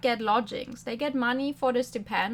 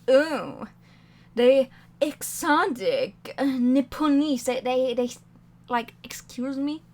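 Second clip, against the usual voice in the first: snooty British; 5 dB louder, slower than usual. Retold or imitated. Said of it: "every single British person we meet in this game is like".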